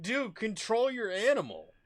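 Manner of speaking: high, loud reenacted yell; retold angry demand. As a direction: shout the order at the other owner. Acted quarrel with the owner.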